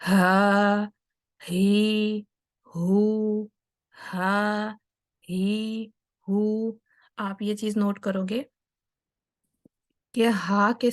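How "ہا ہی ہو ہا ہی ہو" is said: "ہا، ہی، ہو" held level, each begun with flowing breath; open-throated ha. Shown as a demonstration. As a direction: keep the vocal cords open on "ہا، ہی، ہو". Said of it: "vocal cord کو کھلا رکھتے ہوئے آواز نکالنی ہے".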